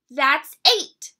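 high, eager cub voice; sweet little bear cub. Acted. Little Brown Bear's voice.

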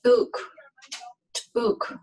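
"Ook" opened with a popped T; "Ook" as t'ook, the T an ejective click of air. Shown as a demonstration. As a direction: pop a T hard before "Ook". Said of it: "So pop that T up".

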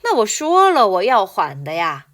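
very slow, clear reading of the line; slow model reading. Shown as a demonstration. Teacher reading the line slowly for students to repeat. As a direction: read it slowly for the class to repeat. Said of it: "같이 가요. 시작".

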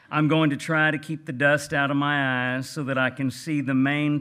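a lightly put-on Texas gentleman accent; J. Frank Dobie's Texas voice. Reading Dobie's essay aloud to the audience, in a light Texas gentleman accent. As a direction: read it like a genteel old Texan rancher with a light Texas accent. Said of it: "in my best Texas gentleman voice".

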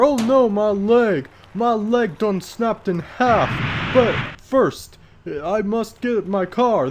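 loud, high, hammed-up old codger; bad old man voice. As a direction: holler like a cartoon old man in a panic. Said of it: "my old man voice sucks".

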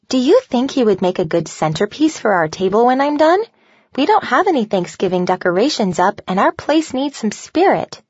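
a hint of a keen fourth grader asking mom; eager young girl. Voices Grace asking her mother hopefully.

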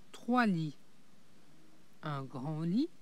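breathy whispered reveal. A narrator's reading. Le narrateur révèle les trois lits, chuchoté. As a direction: whisper it like a secret.

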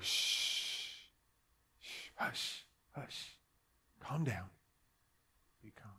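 very soft, breath-only hushes; shushing a baby. Acted. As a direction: soothe a screaming baby to sleep. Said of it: "trying to quieten a baby".

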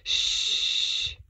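long shush, then hushed whisper; teacher's library whisper. A narrator's reading. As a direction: shush a pupil and whisper the rule. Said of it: "You have to whisper in the library".

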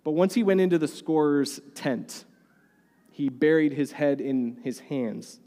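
normal talking voice

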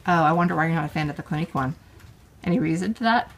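fast, knowing tease; sarcastic teasing. Real, not acted. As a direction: poke fun at her. Mother teasing daughter's dislike.

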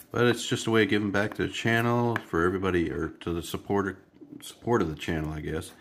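congested, blocked nose voice; stuffy nose. Real, not acted. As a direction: talk through a head cold. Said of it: "I probably sound a little stuffy".

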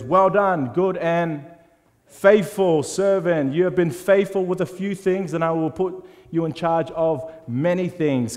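slow, loud, proud blessing; master praising servant. Acted. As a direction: bestow praise like a pleased lord, slowly. Master praising faithful servant in parable.

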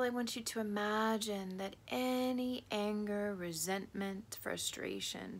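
measured meditation voice with long pauses; unhurried visualisation, phrase by phrase; guided meditation. Acted. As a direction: guide the listener gently through the imagery.

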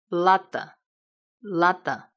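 slow "lada", full first a, reduced last a; closed unstressed a. Shown as a demonstration. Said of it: "要发闭音". (慢速示范：非重读的 a 发闭音)

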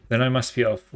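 put-on a light British officer accent; a hint of a British officer taking his leave. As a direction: clip it like a British gentleman leaving. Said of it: "was that even a good British accent".

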